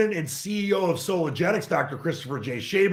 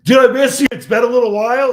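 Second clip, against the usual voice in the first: loud, bright, high hello; excited greeting; 5 semitones higher, 10 dB louder than usual. Real, not acted. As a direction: gush over seeing a friend. Greeting the host.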